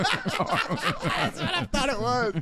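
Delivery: laughing through the words, slow and high; can barely get it out for laughing. Real, not acted. Reacting to the super chat joke, slow laughing.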